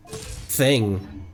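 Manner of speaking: ordinary delivery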